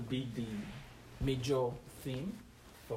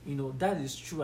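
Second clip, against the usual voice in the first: mock eager agreement; 3 semitones higher than usual. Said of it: "and say".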